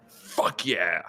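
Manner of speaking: hushed, pleased exclamation; whispered cheer. Retold or imitated. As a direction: whisper a triumphant yes.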